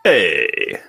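booming hey; loud greeting. Real, not acted. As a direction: shout a big hello.

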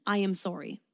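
clear, unhurried apology; each word of a simple apology set out clearly. Shown as a demonstration. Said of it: "Say it very clear".

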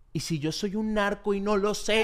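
slow, laughing paranoid whisper to himself; mock panic. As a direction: wonder it half-laughing, pretending to panic. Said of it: "me pongo así todo loco". (pánico fingido entre risas)

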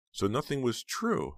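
high, slow, dazed realization; a little dazed. A narrator's reading. Heather learns Snowman lied, slow and dazed. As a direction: let it dawn slowly, pitched high. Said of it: "feeling a little dazed".

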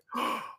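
sharp intake of breath, imitating shock; mock shocked gasp. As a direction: gasp as if horrified, for laughs. Imitating Zeke's shocked reaction.

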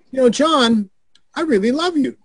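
lightly bemused confession. Retold or imitated. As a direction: say it like you're surprised at yourself. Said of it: "in kind of a bemused voice".

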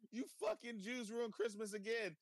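high-pitched whiny cartoon outburst; Cartman. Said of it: "he's like".

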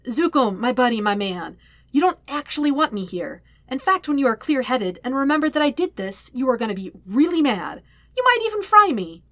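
nervous rambling plea. Acted. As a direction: babble nervously to talk him down. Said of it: "Sokka rambled".

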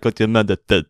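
mock Russian accent on "Gochu Manathan"; teasing copy of a Russian-accented name; imitated Russian accent. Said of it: "in the Russian accent".

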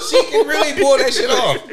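high laughing voice. Real, not acted. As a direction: keep laughing through it. Laughing at a joke.

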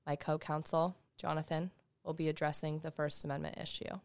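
slow, measured court opening; may it please the court, slowly; slow courtroom speed. Shown as a demonstration. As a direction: speak slowly and formally to the bench. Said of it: "this kind of speed where you say".

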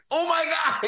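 high panicked gasp of apology. Retold or imitated. Brother panics in retold story.

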